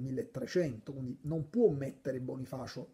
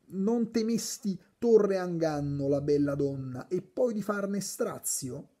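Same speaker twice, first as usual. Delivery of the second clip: slow, raised-pitch recitation of a shout; mild declaimed cry; 5 semitones higher, 3 dB louder than usual. Acted. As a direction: declaim it as a restrained cry, drawn out. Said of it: "Ed ei gridò".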